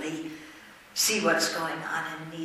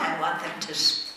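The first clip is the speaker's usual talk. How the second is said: hiccups. Real, not acted. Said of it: "Sorry, I have the hiccups".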